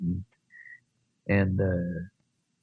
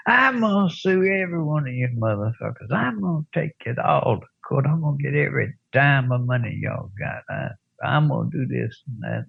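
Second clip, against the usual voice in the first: higher, indignant rant imitating the beaten guy; mock the blustering victim; a hint of an outraged loser; ranting threat; 4 semitones higher, faster than usual. Beaten man threatening to sue.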